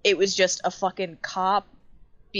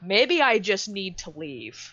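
put-on dazed drunk. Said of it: "seeing this guy be like".

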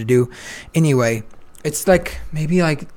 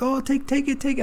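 high, pushy voice of a stranger; mock urging guy; 9 semitones higher, 6 dB quieter than usual. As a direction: play the pushy guy outside the club. Guy outside club urging him.

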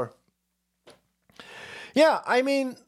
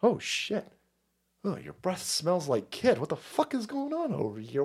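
hushed mock-horrified kid; soft, uneasy imitation of a child's inner panic; little girl's alarm; 7 dB quieter than usual. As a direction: imitate a girl softly freaking out. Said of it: "She's sitting there going".

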